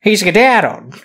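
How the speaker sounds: bad Scottish accent, rolled skedaddled; He skedaddled in a hammy Scottish brogue. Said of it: "my Scottish accent for today".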